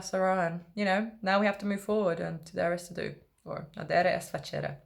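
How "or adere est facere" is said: light Italian accent on the Latin; lightly Italian-accented adere est facere. Shown as a demonstration. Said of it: "I said that in an Italian accent".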